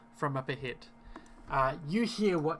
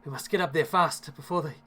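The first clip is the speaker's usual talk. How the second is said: a touch of worry, slightly raised pitch; worried; 3 semitones higher, 3 dB louder than usual. Acted. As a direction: voice mild urgency as a worried villager. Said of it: "looks up with worry and says".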